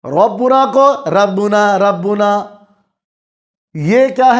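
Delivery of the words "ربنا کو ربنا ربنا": ربنا with the ر said thin and light, slowly; thin ra demo. Shown as a demonstration. Teacher shows a wrongly thinned ra in ربنا. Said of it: "ہم کسی سبب سے را کو باریک پڑھ دیں".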